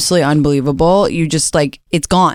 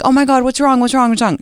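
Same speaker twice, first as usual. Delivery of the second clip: mock panic; 9 semitones higher than usual. Cat owner woken at night by the cat's cries, mock panic. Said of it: "I'm like".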